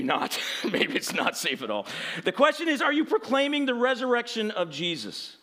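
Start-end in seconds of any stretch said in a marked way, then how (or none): 2.2-5.4 forceful, projected challenge; emphatic preaching. Real, not acted. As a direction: put the question squarely to the congregation. Restarts the same sentence with force.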